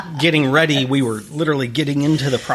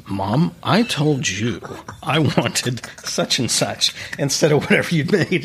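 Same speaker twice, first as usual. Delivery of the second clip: slow, composed imitation of the boy; a kid forcing himself to sound calm; lightly voiced small boy, measured and polite; lower, slower child; 2 semitones higher than usual. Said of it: "in a lower voice and more slowly".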